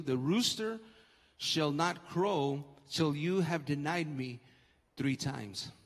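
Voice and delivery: measured Bible reading from the pulpit; scripture reading. Acted. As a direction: read the verses out solemnly, voice settling downward. Reads scripture aloud.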